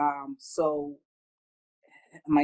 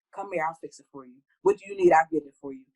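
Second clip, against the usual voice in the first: eager mother rushing in, louder; fussing mom; 5 dB louder than usual. Retold or imitated. Mother fussing over her child, fussing and eager. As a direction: play the fixer mom, eager. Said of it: "I'm that mom".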